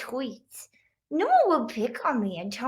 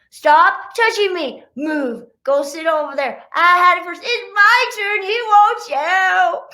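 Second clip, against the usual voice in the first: put-on squabbling kids; 6 semitones higher, 7 dB louder than usual. Siblings fighting over toys.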